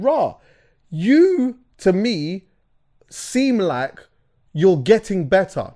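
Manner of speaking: high, hyped-up and stretched out; excited praise. Retold or imitated. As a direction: lift it up like real praise. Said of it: "I'm listening to him and I'm saying".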